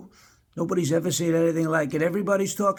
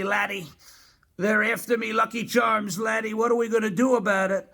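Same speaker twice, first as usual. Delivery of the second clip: lightly voiced pleading leprechaun, a little higher; Lucky the Leprechaun; 5 semitones higher than usual. Leprechaun asking the president for help, pleading. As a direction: plead like a worried little mascot inside a president impression. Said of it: "Lucky the Leprechaun, and he said to me".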